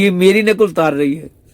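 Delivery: indignant complaint. Acted. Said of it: "तो कह रही". (ऊँची, तेज़ आवाज़ में शिकायत)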